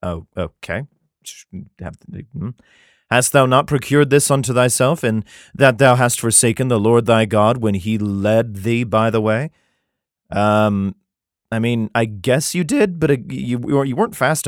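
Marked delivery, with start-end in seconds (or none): 3.1-9.5 measured, solemn Bible reading; scripture reading. Acted. Comedian reads Jeremiah to his audience, solemn scripture reading. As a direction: read it like King James scripture.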